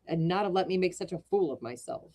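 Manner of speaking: lively read-aloud storytelling with voiced characters; reading a classic tale to a live audience; story narration. A narrator's reading. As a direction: tell it like a bedtime storyteller. Reads Wilde story aloud.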